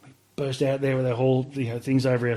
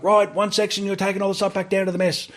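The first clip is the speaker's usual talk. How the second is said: higher, quick mock order; rattling off the command fast, pitched up; MP barking orders; 7 semitones higher than usual. MP gives orders to recruits.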